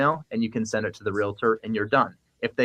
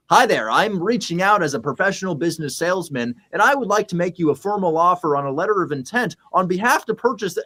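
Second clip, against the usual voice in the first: stupid sales voice; 5 semitones higher than usual. Retold or imitated. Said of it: "your stupid sales voice".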